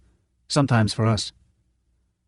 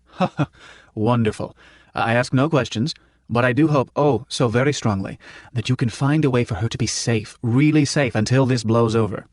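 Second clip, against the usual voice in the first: a hint of a grateful elderly gentleman; lightly voiced professor, heartfelt; relieved professor. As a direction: Prof thanking Manny. Prof relieved.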